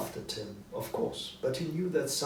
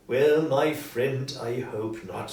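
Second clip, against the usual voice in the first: smiling; 5 dB louder, slower than usual. Acted. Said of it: "Scrooge said with a big smile".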